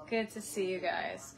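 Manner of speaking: lightly put-on TV host voice; TV presenter voice. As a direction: say it like a smooth TV host. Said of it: "I'm trying to talk like the people on T V".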